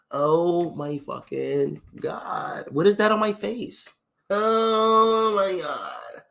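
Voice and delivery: drawn-out mock white-girl dismay; white girl fretting. White girl at the mirror finding a bump, exaggerated drawn-out dismay. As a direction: stretch it out like a distressed white girl. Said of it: "Why do white girls play with their face".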